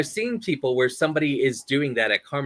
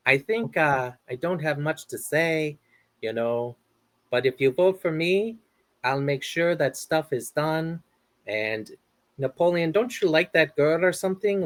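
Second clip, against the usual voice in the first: Pedro impression; 3 semitones higher than usual. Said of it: "I'm gonna do Napoleon Dynamite".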